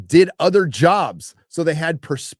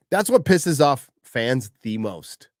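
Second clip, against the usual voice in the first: normal talking voice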